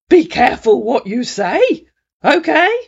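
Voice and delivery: high, loud warning; high threatening man's voice; warning scammer. A narrator's reading. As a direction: warn her sharply. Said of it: "said our man".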